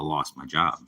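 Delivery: usual speaking voice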